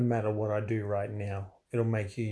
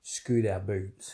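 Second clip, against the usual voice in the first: grandma voice; 2 semitones lower, much slower than usual. Pretend. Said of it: "Righto, Grandma".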